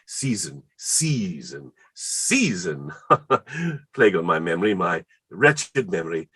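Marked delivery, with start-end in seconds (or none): 0.0-2.9 repeats season softly to memorize it; practicing the word. Shown as a demonstration. Memorizing her word, softly practicing. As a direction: drill season quietly. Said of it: "I must e'en write it down".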